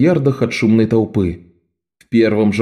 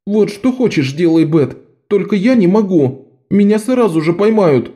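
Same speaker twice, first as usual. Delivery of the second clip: put-on higher, pleading boy's voice; higher frightened pleading; scared boy; 9 semitones higher than usual. A narrator's reading. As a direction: beg her, sure he'll be caught. Tem pleading.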